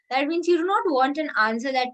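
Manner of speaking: ordinary delivery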